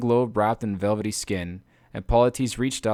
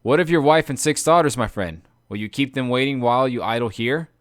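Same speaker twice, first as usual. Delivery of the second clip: raised voice calling across; 5 dB louder than usual. Acted. Odysseus calling to his friend, raised voice. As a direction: call out to him, reproachful. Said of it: "he called out to Eurylochus".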